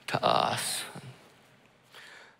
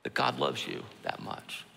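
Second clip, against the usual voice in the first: hushed, breathy whisper of awe; 8 dB quieter than usual. Real, not acted. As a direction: whisper it like a secret to the heart. Preacher drops to intimate aside.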